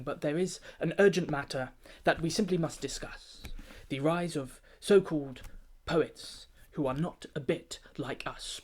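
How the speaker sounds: a lightly pompous performance-poem delivery; pompous formal address. Acted. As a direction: address the keepers like a self-important chairman. Pompous keeper addresses the meeting.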